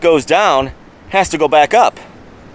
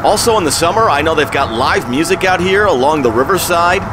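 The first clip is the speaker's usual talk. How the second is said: shouting over wind; 2 semitones higher than usual. Real, not acted. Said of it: "I'm going to try and yell over the wind".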